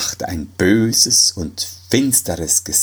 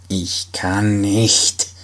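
very slow, cold voice of Death; grim reaper voice; much slower than usual. Acted. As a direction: Death flatly refusing. Death refuses. (sehr langsam, kalt, die Stimme des Todes)

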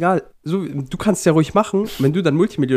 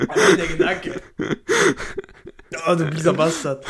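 angeekelt. Real, not acted. Disgusted, walks round room.

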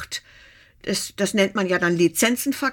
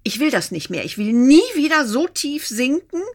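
retold firm vow, rising on the second sentence; emphatic vow; 3 semitones higher, 3 dB louder than usual. Heartbroken women swear off sinking again, emphatic retold vow.

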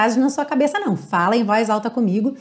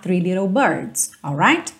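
American lyric demo; 4 semitones lower, slower than usual. Shown as a demonstration. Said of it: "não tem problema nenhum cantar".

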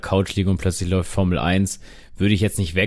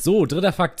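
announcer lift; 8 semitones higher than usual. Acted. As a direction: quiz host announcing, pitched high. Quiz host announcing next fact.

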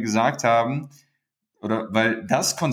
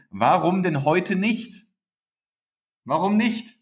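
higher, slow, rising with enthusiasm; excited rhetorical question; 8 semitones higher, slower than usual. Real, not acted. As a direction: sell the idea to the listeners. (begeistert und höher gefragt)

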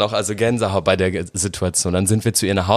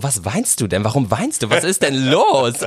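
retold insistent questioning; 4 semitones higher than usual. Mother asking crying child what is wrong, insistent questioning. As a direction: imitate a puzzled mother pressing for answers.

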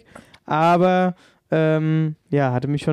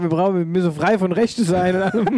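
laughing. Real, not acted. Laughing at own idea.

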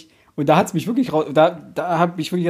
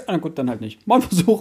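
usual speaking voice

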